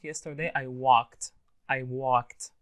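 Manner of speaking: "walked" as one syllable ending "kt". Shown as a demonstration. Teacher giving a past tense example, walked ending in T. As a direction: close "walked" on a crisp T, no extra vowel. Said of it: "It's pronounced T".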